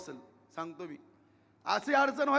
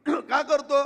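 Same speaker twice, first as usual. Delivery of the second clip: higher, louder, drawn-out का करतो; slow emphatic question; 4 semitones higher, 7 dB louder, much slower than usual. Real, not acted. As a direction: stretch का करतो slowly and loudly. Rhetorical question repeated.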